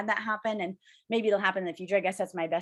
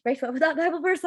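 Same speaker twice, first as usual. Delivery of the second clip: higher, more urgent repeat of the question; 7 semitones higher, 3 dB louder than usual. Retold or imitated. Retold note-taker pressing friend Grace again, higher and urgent. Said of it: "she talked way too fast for me".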